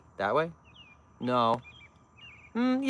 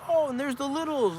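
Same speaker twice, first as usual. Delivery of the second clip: imitating churchgoer; 13 semitones higher than usual. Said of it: "It was like".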